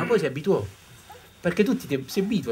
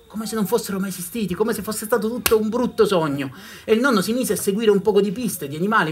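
louder and higher, building the tension; rising storytelling intensity; 6 semitones higher, 6 dB louder than usual. A narrator's reading. Storyteller building suspense for the audience. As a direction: push the story forward with growing urgency.

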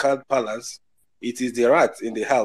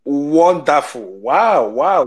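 drawn-out, swooping wonder; real pleased surprise, stretched out; delighted amazement; 3 semitones higher, 5 dB louder, much slower than usual. Real, not acted. Guest learns the host's husband is Igbo, delighted amazement.

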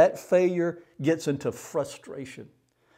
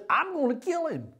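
Jezebel's threat; 12 semitones higher than usual. Retold or imitated. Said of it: "She says".

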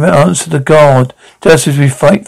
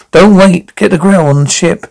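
urgent shout; 3 semitones higher than usual. Acted. Urgent order amid fighting.

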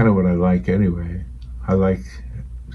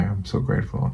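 near tears; 5 dB quieter than usual. Real, not acted. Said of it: "I'm gonna cry".

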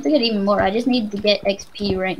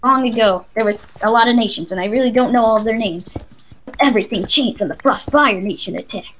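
slightly louder, improvised prologue voice; mock intro narration; 5 dB louder than usual. Gamer parodying a show intro for a friend, mock narration. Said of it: "Great intro".

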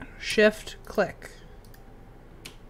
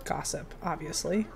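whispered; 5 semitones lower, 10 dB quieter than usual. Real, not acted. Player picking the same option again, whispering. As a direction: Gossip breathed out, much softer.

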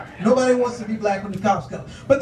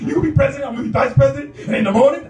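excited Eddie Murphy; 2 semitones higher, faster than usual. Retold or imitated. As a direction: gush with big raised pitch. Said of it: "He'd be like".

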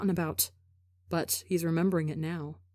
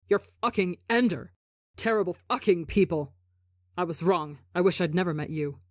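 angry. Acted. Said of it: "sharp with anger and fire".

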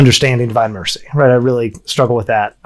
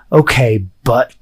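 imitating defiant toddler; 2 semitones lower, much slower than usual. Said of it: "she looked at me and she said".

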